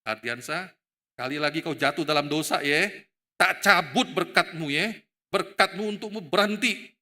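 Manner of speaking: mock threat with hard emphasis; Tuhan. God supposedly threatening to withdraw blessing, mock stern warning. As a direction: threaten in punched, spaced-out phrases. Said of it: "Tuhan pernah nggak ngomong begini".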